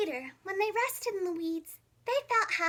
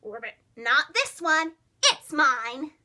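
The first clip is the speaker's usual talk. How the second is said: louder defiant croak; 7 dB louder, slower than usual. Acted. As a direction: refuse them loudly and stubbornly. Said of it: "Milton croaked defiantly".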